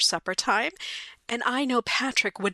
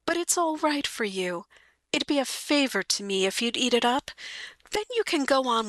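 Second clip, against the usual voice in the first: mild begging; 3 semitones higher than usual. Acted. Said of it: "she begged".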